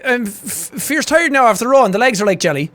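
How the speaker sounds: lightly imitated Irish rower; Irish accent. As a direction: put on a broad Irish accent. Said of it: "this is one of those accents".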